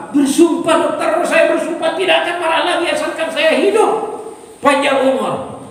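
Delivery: high, emphatic swearing; frightened oath. Acted. Frightened patient swearing an oath to his doctor, desperate. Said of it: "Karena orang takut".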